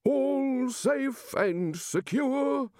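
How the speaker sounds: high, slow, drawn-out shout; hammy sentry shout; shouted report. A narrator's reading. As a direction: sing it out to the window. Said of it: "shouted the gatekeeper".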